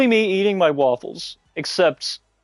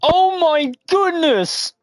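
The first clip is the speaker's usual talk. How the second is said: surprised; 8 semitones higher, much slower than usual. Real, not acted. Shocked at chicken story.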